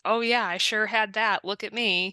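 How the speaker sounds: lightly sarcastic boast; a touch of mock bravado. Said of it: "almost in a tone of sarcasm".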